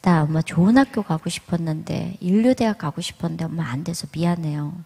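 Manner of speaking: soft, partly whispered apology; quietly sorry, son letting his mother down; son's sad apology. Retold or imitated. Son apologising to his mother for failing the exam, softly. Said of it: "그러면서 저한테".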